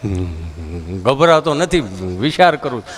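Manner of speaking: low simple villager; dull villager. Retold or imitated. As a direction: grunt it slow and dim. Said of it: "villager answer".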